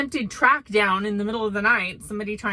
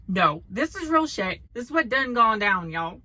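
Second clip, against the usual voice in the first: put-on southern accent. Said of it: "my southern accent".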